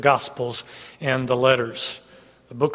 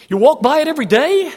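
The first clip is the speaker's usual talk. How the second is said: higher and louder, stretching day; emphatic; 10 semitones higher, 5 dB louder than usual. Acted. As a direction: drive the point home to the congregation. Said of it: "preacher repeats for emphasis".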